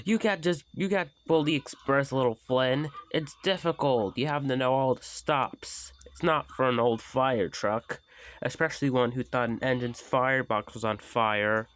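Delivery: high, loud, scornful lecture; lightly voiced sneering Gordon; mocking big engine. Gordon belittling Flynn, mild mockery.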